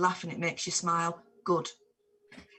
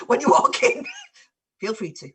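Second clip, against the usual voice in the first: laughing; 3 semitones higher, 7 dB louder than usual. Real, not acted. Joking about live streams.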